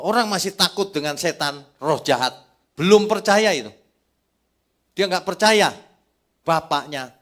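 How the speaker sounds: loud, rising pulpit cry; full-force preaching. Acted. Preacher calling the church to trust the Father, loud. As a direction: drive the point home to the congregation.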